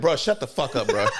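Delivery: fed-up viewer shouting at the screen; laughing rebuke. Retold or imitated. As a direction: tell him off while laughing. Telling Toguro off, laughing.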